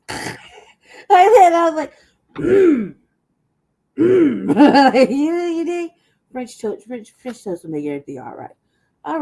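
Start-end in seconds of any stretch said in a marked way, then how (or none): 2.4-5.1 higher, louder happy mm; pleased hum. Retold or imitated. Savoring his French toast offer, happy mm hum. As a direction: hum with delight.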